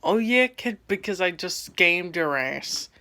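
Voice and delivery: scammer gloating over the kid he fooled, mock triumphant. Scammer taunting the twelve-year-old he scammed, smug mock gloat. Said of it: "And he's like".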